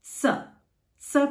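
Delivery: "S, S" each said as tsuh; slow, separate T-S sound on "S, S"; German Z sound. Shown as a demonstration. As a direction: say "S" as tsuh, twice. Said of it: "So the Z is".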